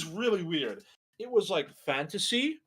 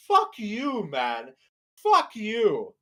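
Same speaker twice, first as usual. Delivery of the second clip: mock angry outburst; 6 semitones higher, 6 dB louder, much slower than usual. His reaction to the killer.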